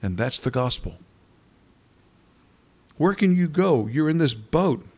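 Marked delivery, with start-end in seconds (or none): 3.0-4.8 higher and louder, pressing the question; urgent challenge. Real, not acted. Preacher challenging the congregation, urgent and raised. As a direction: press the listeners hard.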